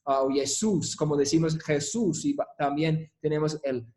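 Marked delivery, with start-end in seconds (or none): 0.3-2.2 Jesús stressed on SÚS, as in Spanish; stress on final syllable. Shown as a demonstration. Teacher compares Greek and Spanish names, final stress on Jesús. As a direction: land the emphasis on the last syllable of Jesús. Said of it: "el énfasis en el mismo lugar".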